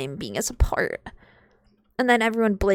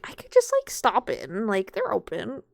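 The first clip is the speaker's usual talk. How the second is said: tempted; 4 semitones higher than usual. Retold or imitated. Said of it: "I was like".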